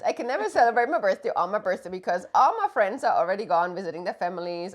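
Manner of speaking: mock whining complaint in one long run; put-on whiny voice; whiny imitation. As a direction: imitate your partner moaning, hammed up. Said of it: "Oh, she always whines".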